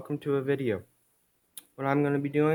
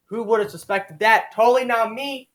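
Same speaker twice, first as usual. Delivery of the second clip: much higher, louder, hammed-up disbelief; mock surprise; 10 semitones higher, 5 dB louder than usual. Comic's author reacts to own plot twist, mock surprise. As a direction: play up the fake shock at a twist.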